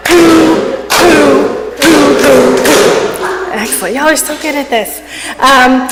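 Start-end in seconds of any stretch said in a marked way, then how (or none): 0.1-3.5 hoo hoo laughter exercise. Shown as a demonstration. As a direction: hoot out a playful hoo rhythm. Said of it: "we'll do it with a oo".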